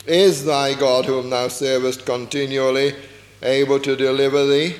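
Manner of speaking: mild doubting plea into the den; lamentable voice. Acted. King calls to Daniel in the den, mildly lamenting. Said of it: "he said it in a lamentable voice".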